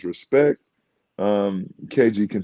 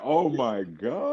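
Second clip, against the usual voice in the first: relieved exclaim; 3 semitones higher, 4 dB quieter, much slower than usual. Retold or imitated. Relief after coach's joke.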